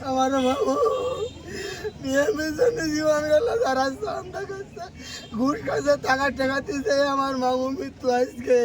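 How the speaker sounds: sobbing out grief for her uncle; crying as she speaks, voice catching; hit hard crying out. Real, not acted. Relative grieving nephew's killing on camera. (কান্নাভরা আর্তনাদ)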